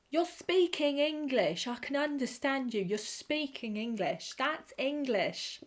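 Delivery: lightly voiced excited companion; imitating Rose. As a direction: gush like Rose meeting the Doctor. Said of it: "It's how she says it".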